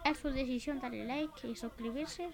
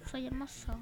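whispering; 4 dB quieter than usual. Pretend. Vain joke after kill.

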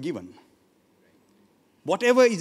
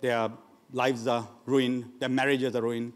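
low, soft imitation of lamenting parents; understated, downcast grumble; subdued complaining; 9 semitones lower, 6 dB quieter than usual. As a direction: quietly voice a parent's list of woes. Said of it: "They're always complaining about the children".

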